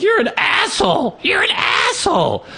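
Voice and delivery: very high shrieked insult; high mock yell; kid yelling. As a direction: scream it like an outraged boy. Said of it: "He's like".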